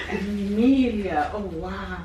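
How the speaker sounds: overjoyed surprise at the gift; delighted gasp. Real, not acted. Grandma opening the gift.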